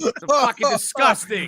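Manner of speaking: grossed-out shout; disgusted outburst. Real, not acted. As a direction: yell out your disgust. Reacting to a gross joke.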